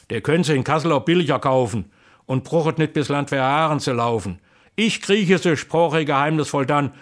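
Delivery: lively, rhythmic Kassel dialect verse; dialect poem recitation. Acted. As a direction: recite it like an old folk poet.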